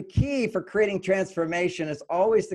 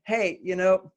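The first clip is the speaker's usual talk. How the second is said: softened request; faster than usual. Shown as a demonstration. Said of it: "Just soften up about it".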